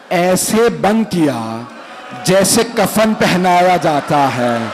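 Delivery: sorrowful majlis recitation, pleading at times; lamenting recitation. Acted. Preacher telling the infant's martyrdom to mourners, lamenting. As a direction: draw the mourners into the grief.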